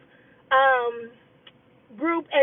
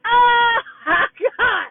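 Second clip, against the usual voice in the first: laughing; 6 semitones higher, 4 dB louder, much slower than usual. Real, not acted. Laughing at being slammed.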